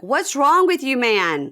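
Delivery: high, loud retold cast outburst; mock yell. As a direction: yell it at him in disbelief. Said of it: "everybody on the cast is like".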